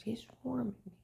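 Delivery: hushed, breathy whisper; scared whisper. Retold or imitated. Confiding her fear of being followed, whispered. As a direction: whisper it like they might hear.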